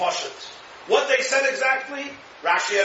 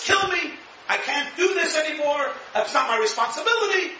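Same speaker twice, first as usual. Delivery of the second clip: exasperated Moshe; 6 semitones higher than usual. Retold or imitated. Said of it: "Moshe says".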